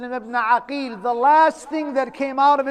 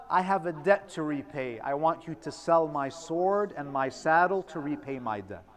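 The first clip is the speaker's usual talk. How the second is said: hushed plea; 6 semitones lower, 8 dB quieter than usual. Retold or imitated. Muslim's dying requests, hushed.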